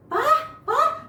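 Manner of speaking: high, eager call of Pak, Pak; joyful calling. Acted. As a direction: call out to father full of joy. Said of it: "dengan sukacita".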